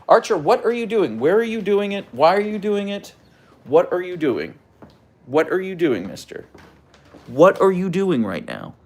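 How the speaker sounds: high, insistent pet voice; high singsong questions to the husky; dog talk. Real, not acted. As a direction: pester the dog playfully.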